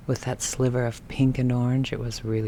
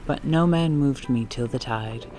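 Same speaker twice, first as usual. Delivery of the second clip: poem reading. Acted. Reads a Dickinson poem.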